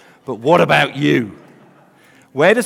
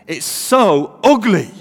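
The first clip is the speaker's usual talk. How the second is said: loud, drawn-out Mancunian accent; 5 semitones higher, 6 dB louder, slower than usual. Shown as a demonstration. Preacher redoing his punchline for laughs, Mancunian accent. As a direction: lean slowly into a broad Mancunian. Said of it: "say that with a Mancunian accent".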